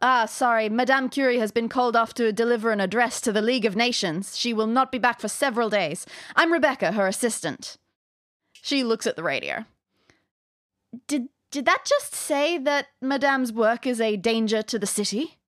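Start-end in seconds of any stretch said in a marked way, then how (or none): 0.0-7.8 put-on light French accent as a young assistant; a hint of a French accent; French tinged accent. Rebecca the assistant greeting the players, light French accent. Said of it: "in her tinged accent". 11.1-15.4 put-on worried young assistant, light French accent; a touch of French-accented alarm; French tinged accent. Rebecca asking about the radio, light French accent. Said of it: "in her tinged accent".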